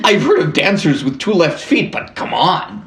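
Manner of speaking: put-on high-pitched hammy Canadian accent; bad Canadian accent. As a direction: joke along in a caricature Canadian voice. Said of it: "bad Canadian accent".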